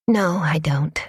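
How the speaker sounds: breathy whispered admission. Acted. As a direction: let it out on a sigh, whispered. Sighing, quiet resignation.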